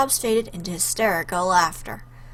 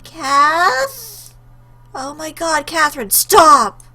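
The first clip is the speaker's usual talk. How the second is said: higher, loud shout to stop her; frantic plea; 7 semitones higher, 8 dB louder, much slower than usual. Acted. Friend sees her self-harm.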